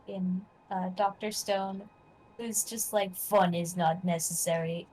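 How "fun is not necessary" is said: light Russian accent impression; imitating a stern Russian astronaut. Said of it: "in, like, a Russian accent".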